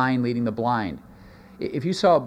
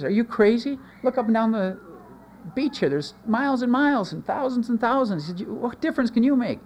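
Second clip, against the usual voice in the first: incredulous; 9 semitones higher than usual. Retold or imitated. Incredulous passerby in starfish story.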